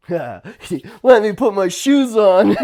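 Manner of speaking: slow, laughing reply; amused retold answer. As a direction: chuckle through it. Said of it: "I'm like".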